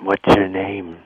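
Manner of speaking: breathy caller voice; lightly breathy question. Acted. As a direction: ask with extra air in the voice. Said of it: "Why do you sound so breathy?".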